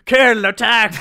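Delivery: high shouted order to the puppies; mock command. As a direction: yell it like a general sending troops.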